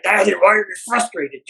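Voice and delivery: mock stern little girl, drawn with feeling; lightly put-on deepened kid voice; little daughter's deepened voice. Five-year-old daughter challenging her frustrated dad, deepened voice. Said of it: "she deepened her voice".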